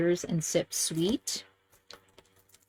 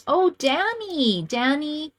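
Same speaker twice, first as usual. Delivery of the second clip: delighted recognition; 6 semitones higher, slower than usual. Real, not acted.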